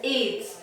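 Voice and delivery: एड्स said as a single word, eɖz, not letter by letter; acronym as one word. Shown as a demonstration. Teacher showing students एड्स said as one word. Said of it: "क्या मैं इसको पूरा pronounce कर रही हूँ".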